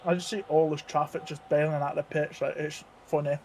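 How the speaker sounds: talking through a mouthful; words round a bite of peach; mouth full. Real, not acted. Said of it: "What are you eating?".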